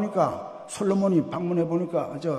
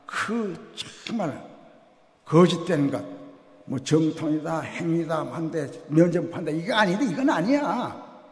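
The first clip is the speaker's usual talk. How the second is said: fervent protest; 5 dB louder than usual. Real, not acted. Luther's protest, preached.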